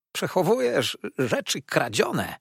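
high-pitched exclamation; accusing cry. A narrator's reading. Uriah accusing the lawyer, high indignant cry. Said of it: "zawołał Uriah".

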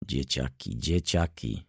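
soft, low, musing murmur. A narrator's reading. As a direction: murmur it to yourself, falling away. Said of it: "szepnął Wokulski".

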